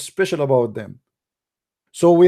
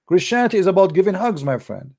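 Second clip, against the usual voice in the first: mocking imitation; 2 semitones higher than usual. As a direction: rattle it off like a naive believer you're ridiculing. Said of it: "This is what they say to you".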